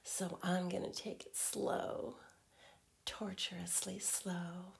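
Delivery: intimate teasing whisper. Acted.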